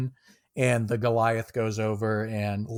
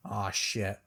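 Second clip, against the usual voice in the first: worried curse; 3 semitones lower, 6 dB quieter than usual. Acted. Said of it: "fear almost".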